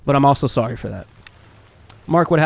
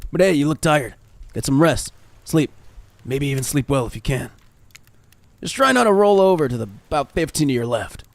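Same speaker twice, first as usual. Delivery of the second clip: Trapper character voice; 2 semitones lower than usual. Acted.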